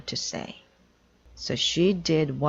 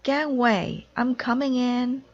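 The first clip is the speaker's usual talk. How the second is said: high, loud warning call; rushing call; 9 semitones higher, 4 dB louder than usual. Acted. Amelia rushing into the concert, loud high call. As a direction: clear the way as you rush in.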